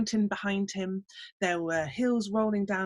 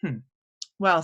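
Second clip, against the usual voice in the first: pondering little man; 4 semitones lower, 3 dB louder than usual. Acted. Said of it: "said the little man".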